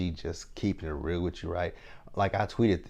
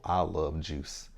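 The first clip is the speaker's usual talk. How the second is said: slow, drawn-out I love juice; slow imitation; much slower than usual. Vlogger recalls the cringy phrase, slow. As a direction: stretch the phrase out, mocking it lightly.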